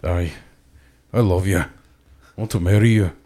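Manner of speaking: put-on halting, half-hearted Scottish accent; low-key Braveheart Scottish impression. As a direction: do a movie Scot declaring love, with pauses. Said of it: "I'll, I'll do Braveheart".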